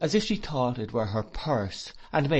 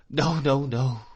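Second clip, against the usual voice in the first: louder, higher tearful no; sobbing cry; 3 semitones higher, 5 dB louder than usual. Acted. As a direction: sob out the denial. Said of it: "cried Emily ... sobbing".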